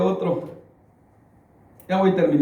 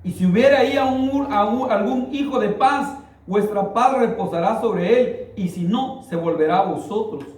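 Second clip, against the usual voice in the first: scripture reading; 5 semitones higher than usual. Acted.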